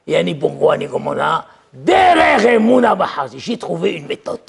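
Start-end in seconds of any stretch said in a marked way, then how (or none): 1.7-3.4 loud proclaimed verse; loud proclaiming call; proclaimed shout. Acted.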